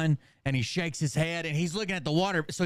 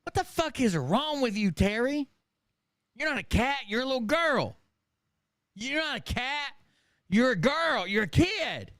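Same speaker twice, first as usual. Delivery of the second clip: put-on kids scolding; 5 semitones higher than usual. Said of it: "the other kids are like".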